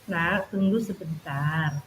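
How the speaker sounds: pelan, lambat dan lebih lirih; dipelankan. Retold or imitated. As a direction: turunkan suara perlahan. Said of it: "perlahan-lahan saya pelankan". (guru merendahkan suara agar anak tenang)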